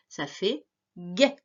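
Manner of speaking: «guet» articulé lentement; détache bien «guet»; syllabe détachée. Shown as a demonstration. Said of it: "syllabe articulée". (articuler «guet»)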